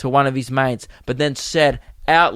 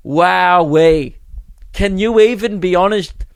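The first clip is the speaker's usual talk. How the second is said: higher, louder exclamation of wonder; amazed; 4 semitones higher, 4 dB louder, slower than usual. Real, not acted. Comedian telling the audience, amazed and louder. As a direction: marvel at it out loud.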